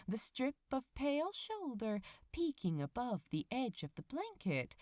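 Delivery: a lightly read bedtime-story voice; story narration. A narrator's reading. Reader telling listeners a cozy morning tale, story narration. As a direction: tell it gently, like a cozy fairy tale. Reads the fic aloud.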